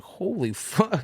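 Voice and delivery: high, drawn-out hushed amazement; retold stunned disbelief, stretched slowly; awestruck. Retelling his amazed reaction to trip.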